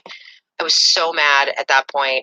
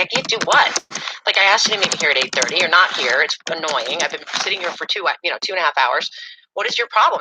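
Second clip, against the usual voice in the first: annoyed confrontation. Retold or imitated. Girlfriend confronting late boyfriend at the bar, rising exasperation. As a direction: let the irritation climb until it snaps. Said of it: "And I was like".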